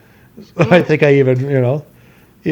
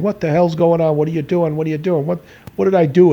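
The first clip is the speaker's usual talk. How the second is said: higher-pitched mock bewilderment; bewildered protest; 5 semitones higher than usual. Son playing clueless to his angry dad, mock bewildered. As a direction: lightly act out baffled innocence.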